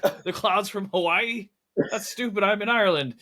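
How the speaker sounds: high-pitched, incredulous mock complaint; frustrated old man. Podcaster mimics actor bewildered by fake clouds, mock frustrated. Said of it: "old man frustrated".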